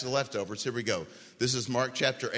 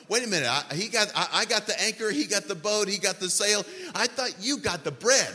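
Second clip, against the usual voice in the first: higher-pitched flustered bickering, lightly hammed up; mock freak-out; 5 semitones higher than usual. Disciples argue in the boat over bread, mild mock panic. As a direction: imitate flustered men passing the blame. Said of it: "They're all freaking out".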